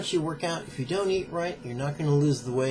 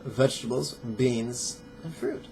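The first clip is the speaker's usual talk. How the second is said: measured, emphatic reading from a book; formal read-aloud with deliberate pauses; book excerpt read-aloud. Acted. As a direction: read it out deliberately, stressing key words.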